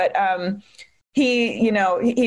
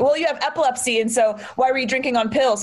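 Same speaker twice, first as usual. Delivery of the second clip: slightly raised, accusatory mimicry; victim-blaming interrogation; 3 semitones higher than usual. Detective challenging the victim about drinking on pills, accusingly. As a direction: needle them like a blaming officer. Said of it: "immediately starts victim blaming".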